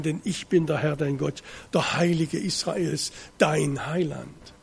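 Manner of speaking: measured, weighty reading of the Bible text; solemn scripture reading. Acted. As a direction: read it out like a preacher in the pulpit. Liest den Text nochmals vor. (feierliche Schriftlesung)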